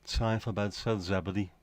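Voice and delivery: put-on catchphrase in a Scouse accent; quoted line with a Scouse lilt. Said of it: "never said in a Scouse accent".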